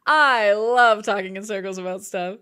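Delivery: "I love talking in circles about stuff" said again with a laugh; laughing restatement. Real, not acted. Owning her love of rambling, laughing. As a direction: repeat it laughing at herself.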